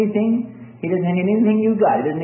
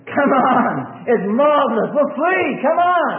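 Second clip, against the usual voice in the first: high-pitched excited call; yelling to fellow prisoner; 7 semitones higher, slower than usual. Acted. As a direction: call out urgently, as if freed from jail. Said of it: "he yells to the bars".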